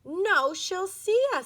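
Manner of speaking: panicky. A narrator's reading. Panicked girl hiding.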